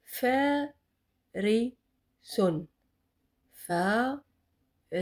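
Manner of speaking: farison spoken slowly, long vowels stretched; slow model word. Shown as a demonstration. Teacher modelling long-vowel word for class. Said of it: "Répétez après moi".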